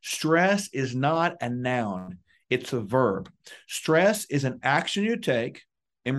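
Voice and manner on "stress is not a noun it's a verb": slowly, every word weighted; slow emphatic truth. Shown as a demonstration. Teaching officers a key lesson on stress, slow and weighted. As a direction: lay down the key truth deliberately. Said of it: "learning this powerful truth".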